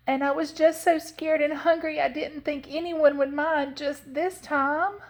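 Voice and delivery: put-on high-pitched child voice, pleading to explain; high, earnest young Southern girl; scared little girl, apologetic.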